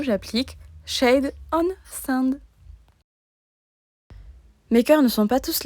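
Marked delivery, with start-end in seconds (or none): 0.8-2.4 careful English. Real, not acted. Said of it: "Désolée pour mon accent anglais qui est bof".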